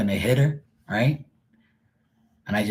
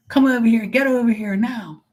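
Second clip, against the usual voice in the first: calling the dog; 13 semitones higher than usual. Retold or imitated. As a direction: call the dog back sharply. Owner calling her dog.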